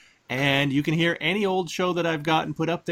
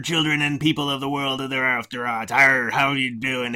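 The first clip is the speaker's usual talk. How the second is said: pirate voice. Acted. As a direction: growl it like a pirate captain. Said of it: "I started off with my pirate voice".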